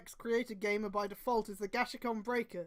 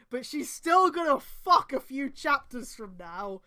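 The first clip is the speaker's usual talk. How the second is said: mocking aside; 2 semitones higher, 7 dB louder, slower than usual. Real, not acted. Mocking the story's promise.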